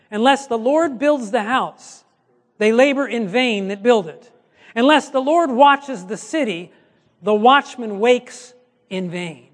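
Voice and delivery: slow, weighty reading of the psalm; slow scripture reading. Acted. Preacher reading the psalm to the congregation, slow and weighty. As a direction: let each phrase of scripture land slowly. Reads Psalm slowly aloud.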